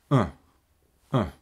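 Е as a tiny relaxed puff of air; just push out a little air and say Е; neutral schwa. Shown as a demonstration. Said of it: "І це виглядає і звучить отак". (нейтральний звук шва)

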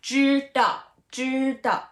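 知道 with 知 high and level, 道 falling; deliberate high 知, short falling 道; first and fourth tone. Shown as a demonstration. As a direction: hold 知 even, then drop 道 sharply. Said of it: "First and the fourth".

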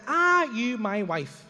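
very slow, deliberate question; slow, stretched-out interrogation; suspicious. Retold or imitated. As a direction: draw each word out in disbelief. Retells his suspicious question.

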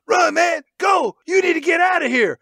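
high, urgent mock scream; strained imitated shout of alarm. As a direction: yell a desperate warning to run. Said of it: "Michael Rooker screams out".

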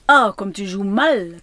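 loud exclamation of reproach; crying out. A narrator's reading. Lady criticising the child's playing, crying out. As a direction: cry out the criticism loudly. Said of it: "cria la dame".

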